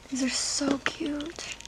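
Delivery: whispered. Real, not acted. Whispered delight, unvoiced.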